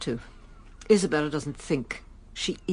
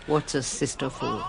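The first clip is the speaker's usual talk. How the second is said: laughing; 4 semitones lower, 4 dB quieter, slower than usual. Real, not acted.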